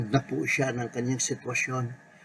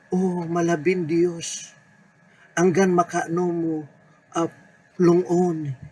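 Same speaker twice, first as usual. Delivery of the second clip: raised, slow pleading prayer; fervent lament; 4 semitones higher than usual. Acted. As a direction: cry out to God as if pleading for help. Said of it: "panawagan na marubdob ang damdamin". (taimtim na pagtangis sa Diyos)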